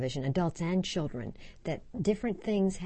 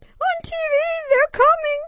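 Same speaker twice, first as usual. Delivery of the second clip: put-on wailing child; 12 dB louder than usual. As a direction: drag out the cry in terror. Child wailing about TV monsters.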